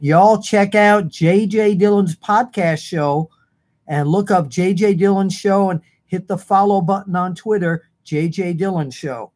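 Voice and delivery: put-on mild Southern accent, slowed and a touch high. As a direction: read it like a Southern fan, slowed. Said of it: "I have to put this in a Southern accent".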